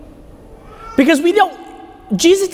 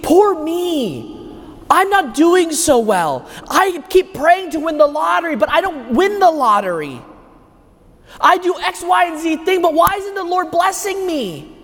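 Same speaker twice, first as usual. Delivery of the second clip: whiny self-pity; 5 semitones higher than usual. Pretend. Imagined self-pitying complaint.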